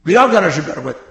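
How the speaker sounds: kindly teasing "sinvergüenza". Shown as a demonstration. Preacher showing the kind way to call a kid a rascal, friendly teasing. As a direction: scold the boy lightly, with a friendly tone. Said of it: "si lo dices amablemente".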